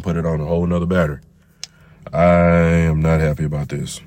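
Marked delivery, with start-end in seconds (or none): 2.1-4.0 louder complaint. Real, not acted. Frustrated vape won't hit.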